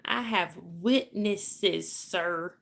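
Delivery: very slow, drawn-out attempt at Irish; shaky amateur Irish accent, deliberately slow. Shown as a demonstration. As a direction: try an Irish accent, stretching each syllable. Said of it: "That's my attempt at an Irish accent".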